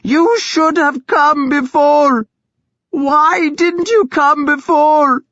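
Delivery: slow, high, loud scream. A narrator's reading. Thyra screaming at her brother Ragnar. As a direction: hurl the blame at him. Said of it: "Thyra screamed at him".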